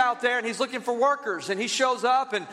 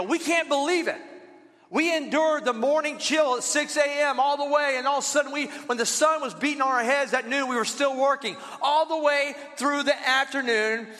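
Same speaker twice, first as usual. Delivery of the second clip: outraged workers; 4 semitones higher than usual. Retold or imitated. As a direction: play the indignant all-day workers protesting the unfair pay. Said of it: "They go".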